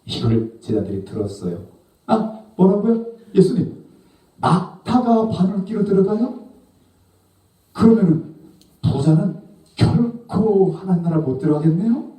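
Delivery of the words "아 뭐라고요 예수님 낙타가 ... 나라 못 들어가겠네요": high, loud incredulous questioning; acted shock, pitched way up; astonished disciples. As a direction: blurt it out in disbelief. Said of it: "라고 묻는 거예요".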